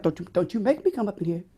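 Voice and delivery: a hint of a stern mama, quick and soft; black mama voice. Voice teacher imitates a mama scolding her child, quick and soft. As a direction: lightly warn like a mama losing patience. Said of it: "that's the black mama voice".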